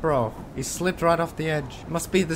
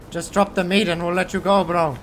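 louder, calling after a runner; shouting after him; 4 semitones higher, 5 dB louder than usual. Real, not acted. Player yelling at the thief to drop the meat. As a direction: yell it after him as he runs.

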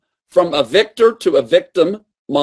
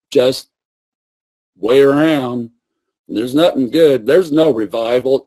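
lower, woeful moaning; self-pitying despair; 4 semitones lower than usual. Retold or imitated. Preacher voicing himself despairing in the cave, low. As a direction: moan that all is lost. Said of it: "go into that wrong cave and go".

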